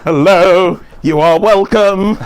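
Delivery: loud, slow radio host greeting. Retold or imitated. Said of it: "with your radio voice in on".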